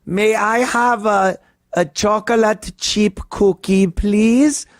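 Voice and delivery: put-on high, sweet child voice; polite little boy. Boy asking a clerk for a cookie, high and sweet. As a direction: ask politely like a small kid. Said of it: "and he's like".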